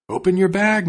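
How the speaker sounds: loud high call up from a tree; cat calls down from the tree to the fox. Acted. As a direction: shout it down to the fox. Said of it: "the cat called out to him".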